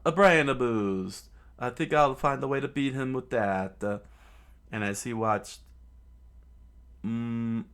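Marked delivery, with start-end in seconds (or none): 0.0-3.8 screamed idea. Acted. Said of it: "Chopper screamed out".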